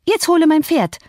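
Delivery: high, loud, lordly order; bossy command to a stable boy. Acted. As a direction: order him like a servant. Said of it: "wie sie die Stalljungen ... anzureden pflegte". (herrischer Befehl an einen Stalljungen)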